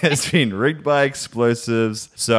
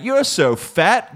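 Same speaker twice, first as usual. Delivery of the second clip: a higher, slow half-hammed robot line; mock robot insult; 7 semitones higher, slower than usual. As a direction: drag out the insult like a machine. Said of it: "It could have been like".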